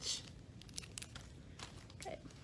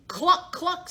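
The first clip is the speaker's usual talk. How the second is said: clucking chicken; 7 semitones higher than usual. Acted. Chicken's reply in story.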